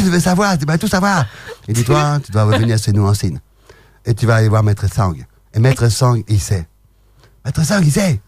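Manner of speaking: lightly done mock Chinese accent. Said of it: "l'accent chinois parce que j'adore faire l'accent chinois".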